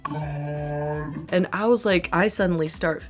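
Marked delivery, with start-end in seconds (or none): 0.0-1.3 hushed, breathy oh my god; dad's stunned whisper; shocked whisper. Retold or imitated. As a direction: whisper it in horror. Dad sees blood squirting.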